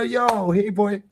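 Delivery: high, friendly dog call. Shown as a demonstration. Calling a foaming dog over in a high, friendly voice.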